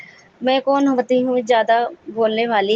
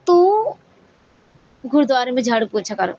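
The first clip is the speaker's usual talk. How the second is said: inner calling voice. Retold or imitated. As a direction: voice rising up inside her, telling her to go. Inner voice urging her to serve.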